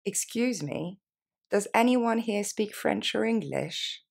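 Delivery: slow, deliberate model sentence. Shown as a demonstration. Teacher repeating the question slowly for beginners. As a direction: stretch every word for learners to copy. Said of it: "plus lentement".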